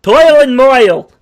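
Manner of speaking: loud, slow Italian-ish "Toil and moil!"; hammed-up Italian-ish accent, drawn out. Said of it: "I'm trying to do, like, a Italian-ish accent".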